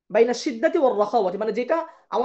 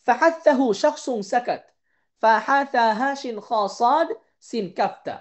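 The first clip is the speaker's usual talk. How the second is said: mnemonic spelled out slowly letter by letter; slow and clear so students can memorize; slow, measured mnemonic chant; slow recitation; slower than usual. Shown as a demonstration. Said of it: "হামসের হরফ দশটি, যেমন".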